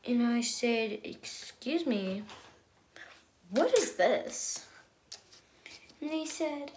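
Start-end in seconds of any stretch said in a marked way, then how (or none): 1.0-4.6 slow, breathy disbelief; disbelieving. Retold or imitated. Girl unwrapping a giant Barbie, slow stunned disbelief. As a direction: ask like you can't believe it.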